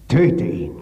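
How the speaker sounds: high, loud scream of "Töte ihn"; screaming wife. Retold or imitated. Wife screams at the robber to kill her husband, shrieking. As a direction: cry it out as a command. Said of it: "schrie sie".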